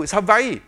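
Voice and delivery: HAWAII as ha-VAI-ee, v for w. Acted. Spouse saying I told you, Hawaii with v. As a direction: say Hawaii with a v in the middle. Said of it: "They were disagreeing".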